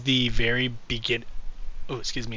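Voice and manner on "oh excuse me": hiccuping mid-sentence; hiccups. Real, not acted. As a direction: caught by a hiccup. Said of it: "I'm getting really hiccupy right now".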